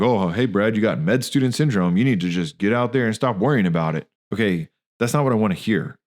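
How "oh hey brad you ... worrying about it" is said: callous joking. Retold or imitated. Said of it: "made a callous joke".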